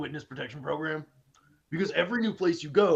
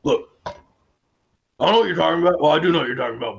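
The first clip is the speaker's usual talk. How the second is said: loud flustered denial; loud defensive denial; 10 dB louder, faster than usual. Acted. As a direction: deny it hard, then backpedal.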